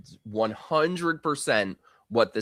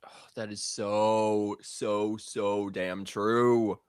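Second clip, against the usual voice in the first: hushed agreement; 4 dB quieter, much slower than usual. Real, not acted. Agreeing with co-host's point.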